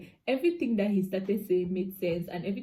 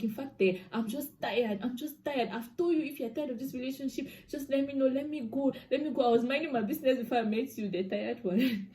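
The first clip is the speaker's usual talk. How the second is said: higher, exasperated plea to be let go; retold fed-up outburst; 5 semitones higher than usual. Girlfriend telling boyfriend she is done, retold exasperation. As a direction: replay being fed up, without shouting.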